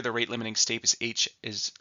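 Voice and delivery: holding back a sneeze; speaking just before a sneeze; about to sneeze. Real, not acted. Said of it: "sorry, I have to sneeze".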